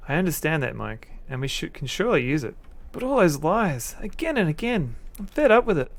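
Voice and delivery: upset wife Sarah. Acted. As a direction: play the crying wife in a high put-on voice. Voices Sarah, fed up with lies.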